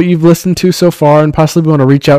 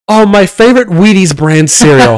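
fake cheery mom; 3 semitones higher than usual. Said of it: "and then just go".

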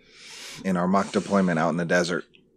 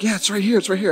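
high-pitched mock-scared voice; hammed-up timid squeak; imitated cowering; 11 semitones higher, faster than usual. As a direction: mimic frightened guys pointing out danger. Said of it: "cowering in a corner".

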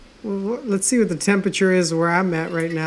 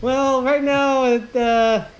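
traffic reporter voice; 4 semitones higher than usual. Pretend. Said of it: "you sounded like, um, a newscaster".

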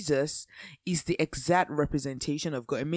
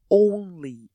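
only stressed, louder and drawn out; emphasis on only; 6 dB louder than usual. Shown as a demonstration. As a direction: lean hard on the word only. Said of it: "lay emphasis on the word only".

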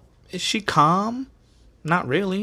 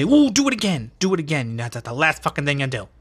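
startled threat; 3 semitones higher than usual. Retold or imitated. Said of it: "she would say".

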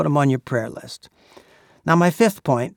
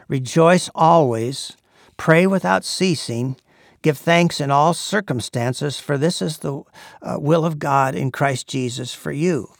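scripture recitation. Acted. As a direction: proclaim it like a sermon text. Reciting Thessalonians.

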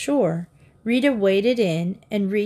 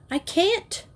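balk, pitch leaping up; frightened reluctance; 10 semitones higher than usual. A narrator's reading. Frightened child cannot jump in.

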